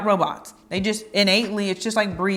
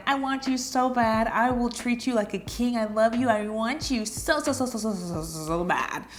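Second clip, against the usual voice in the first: overeager pleading; 2 semitones higher than usual. Pretend. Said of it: "That's a little creepy".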